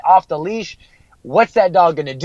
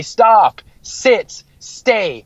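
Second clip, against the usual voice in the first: dog commands; 5 semitones higher, much slower than usual. Retold or imitated. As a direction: call the commands out like to a dog that won't listen.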